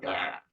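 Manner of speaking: low, rough "ah" noise; imitated snarl. Describing that kind of a guy, imitated snarl. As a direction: snarl it as a sound effect.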